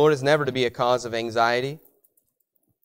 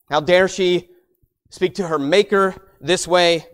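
mock indignation; 4 semitones higher, 5 dB louder than usual. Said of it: "That might be our thinking".

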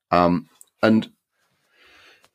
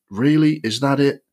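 incredulous disbelief; 7 semitones higher than usual. Retold or imitated. Critic scoffing at the lazy film plot, high incredulous disbelief. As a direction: scoff at it like a letdown. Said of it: "And you just think".

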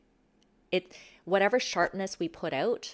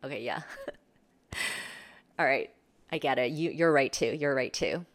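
gracious concession. Shown as a demonstration. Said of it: "those moments you're like".

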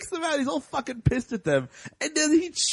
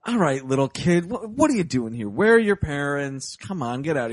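put-on lower, gruff old-timer voice; gruff old man; 9 semitones lower than usual. Old hermit telling a little girl to get out, in a low gruff voice. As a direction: shoo the kid out like a grumpy grandpa. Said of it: "it's like".

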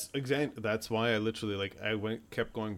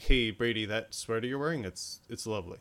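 monotone. Retold or imitated. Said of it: "in a monotone voice".

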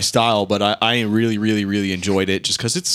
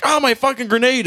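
put-on drunk guy's wail; 4 dB louder than usual. Guy wailing for his spilled drink, high and loud. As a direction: wail over the lost drink. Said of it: "they like".

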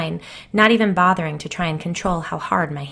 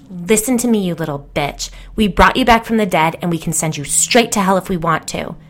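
louder, menacing threat; threatening; 5 dB louder than usual. Acted. Hillary threatening her dead ex-friend, louder and menacing. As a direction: snarl it at a ghost.

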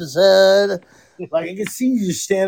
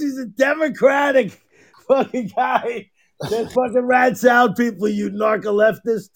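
laughing shout; 4 semitones higher than usual. Real, not acted. Mocking joke, laughing shout.

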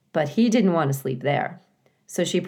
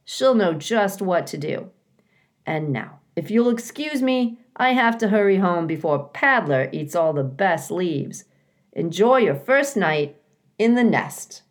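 chatty neighbor hurrying off home; friendly woodland creature; 3 semitones higher than usual. Acted. A creature bidding newcomers goodnight, lightly voiced.

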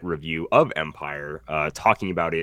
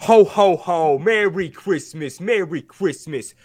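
booming jolly ho ho ho; big slow jolly Santa; Santa Claus voice; 8 semitones higher, 5 dB louder, slower than usual. Acted. Santa greeting in put-on voice.

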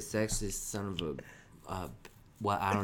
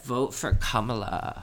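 ASMR voice; 4 dB louder than usual. Pretend. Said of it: "this is an A S M R podcast".

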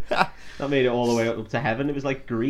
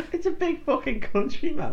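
cowboy voice; 12 semitones higher than usual. Retold or imitated. Imitating Jeff Bridges cowboy.

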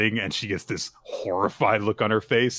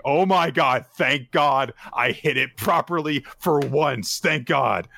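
mildly raised, louder relief; relieved inner voice; 4 semitones higher, 3 dB louder than usual. Acted. Golfer thanking God in his own head, relieved. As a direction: exclaim it like a lucky escape. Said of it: "in Haku's own head, he's like".

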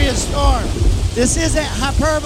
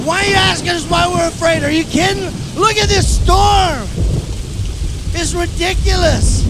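mock exasperated; 4 semitones higher than usual. Disciples' exasperated rant continues.

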